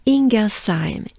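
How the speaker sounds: "Ingersheim" with long "een" and an s in "saim"; French pronunciation. Shown as a demonstration. Teacher drilling the French version for learners, clearly. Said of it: "focus on the French one".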